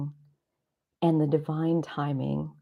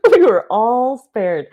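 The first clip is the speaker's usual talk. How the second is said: spoken out loud; 7 semitones higher, 10 dB louder, slower than usual. Real, not acted. Repeated aloud, louder after whisper.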